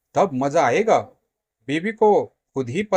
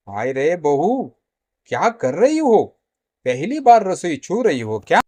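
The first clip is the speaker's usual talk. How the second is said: scolding mother-in-law; 5 dB louder than usual. Acted. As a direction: berate her for clumsiness. Mother-in-law scolds over the burn.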